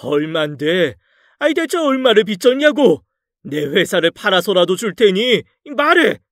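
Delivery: raging, high shout demanding the sum; furious shout. Acted. Father-in-law raging at his indebted daughter, high shouting. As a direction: explode at the daughter. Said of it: "펄펄 뛰는 장인".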